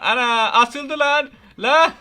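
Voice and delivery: high, loud burst of delight; excited shout. Real, not acted. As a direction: yell out in glee at the prank. Prank succeeds, teacher caught. (heyecanlı bağırış)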